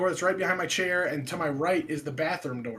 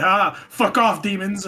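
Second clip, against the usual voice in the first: loud, drawn-out joking brush-off; nervous joking defiance; 5 dB louder, slower than usual. Retold or imitated. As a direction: jokingly tell the demons off, stretching it out. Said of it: "I'm either gonna start joking".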